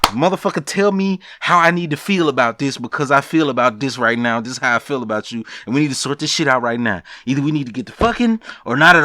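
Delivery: fast, loud imitation of a furious woman; Jack yelling. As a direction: rattle it off like she's demanding answers now. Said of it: "she was yelling".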